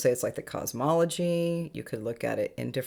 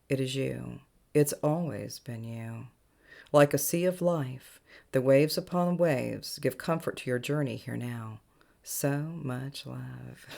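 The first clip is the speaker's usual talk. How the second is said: measured recitation, each phrase lifted at the start and settling down; channeled spiritual message. Acted. Spiritual guide delivering galactic messages to listeners, measured incantatory reading.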